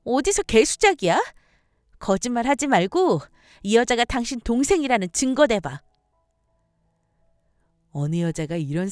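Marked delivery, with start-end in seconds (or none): 0.0-5.8 loud, high-pitched furious accusation; angry disbelief. A narrator's reading. Wife accusing husband of lying about his sister, angry. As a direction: confront him loudly, demanding proof.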